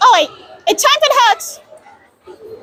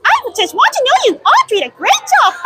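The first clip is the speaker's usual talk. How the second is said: Minnie Mouse voice; 3 semitones higher than usual. Retold or imitated. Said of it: "And Minnie Mouse voice".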